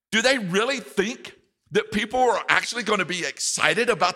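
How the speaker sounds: high scornful questions; sneering incredulous taunt; mocking disbelief. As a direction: ridicule them as the mocking enemy. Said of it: "In effect, he was saying".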